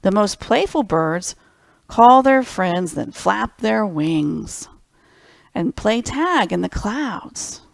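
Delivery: slow, lilting storybook read; gentle picture-book narration; reading to children. Acted. Reads picture book aloud.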